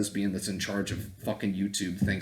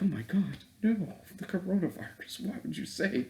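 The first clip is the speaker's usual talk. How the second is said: mocking whiny voice; 4 dB louder than usual. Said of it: "I'm like".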